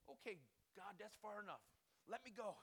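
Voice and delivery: mock strained pleading; acted protest. Acted protest while being pulled back.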